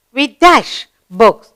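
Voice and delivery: slow model reading of a fill-in-the-blank sentence. Shown as a demonstration. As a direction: read it slowly with a blank.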